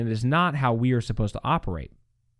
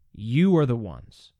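slow, calm, steady accusation. Shown as a demonstration. Preacher showing how Peter could speak: calm and measured. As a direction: say it gently but firmly, no force. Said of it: "He could very calmly be saying".

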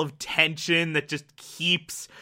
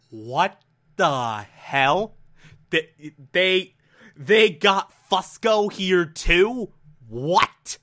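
confused Carter; much slower than usual. Retold or imitated. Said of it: "Carter's going".

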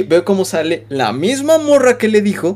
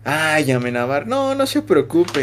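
soft, slow motherly reassurance; calm the sad kid down gently and slowly; consoling teacher; 3 semitones lower, 4 dB quieter, slower than usual. Retold or imitated. He voices the kind teacher comforting him, soft and reassuring. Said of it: "me dice".

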